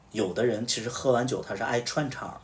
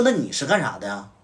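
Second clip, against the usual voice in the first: angry scolding; 5 dB louder than usual. Retold or imitated. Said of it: "我就直接骂了".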